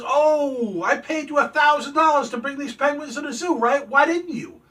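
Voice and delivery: high, loud complaint; hammed-up exasperated protest, pitched high; mock indignation. Angry customer confronts the driver.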